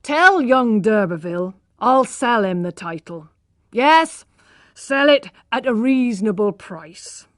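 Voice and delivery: loud, eager haggling, price dropping each time; loud, excited haggling over a price; agitated bargaining. A narrator's reading. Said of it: "cried Lady d'Urberfield".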